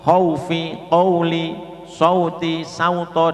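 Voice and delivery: "khaufi, qauli, sauti, sauto" high, short au ending in u; contoh bacaan. Shown as a demonstration. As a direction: recite the examples crisply as models. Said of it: "wawunya seperti u". ("khaufi, qauli, sauti, sauto" dengan au pendek)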